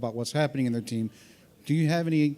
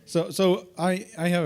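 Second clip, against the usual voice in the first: sing-song; 7 semitones higher, 4 dB louder, slower than usual. Pretend. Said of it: "I'm not gonna do that".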